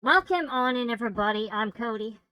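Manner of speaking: muffled behind a full face mask; talking through mask. Real, not acted. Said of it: "recognize the voice through the, uh, mask".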